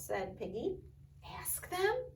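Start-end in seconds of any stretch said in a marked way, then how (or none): 1.2-2.0 high rising doubtful "Ask them?"; surprised question. Acted. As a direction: throw "them" up high in disbelief. Elephant questions the idea.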